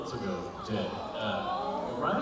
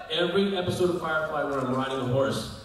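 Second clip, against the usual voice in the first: normal talking voice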